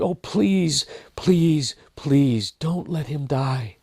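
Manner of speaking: high, pleading and choked with tears; tearful prayer. Acted. Elizabeth weeping on the road, begging God for Neville, high and tearful. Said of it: "she began to weep. And then pray".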